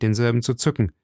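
usual speaking voice

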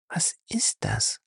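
breathy frightened whisper. Acted. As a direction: whisper it in the dark. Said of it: "flüsterte sie".

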